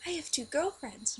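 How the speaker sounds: put-on high, loud excited kid voice; imitated little brother. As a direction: blurt it out like a kid with news. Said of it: "randomly, he's like".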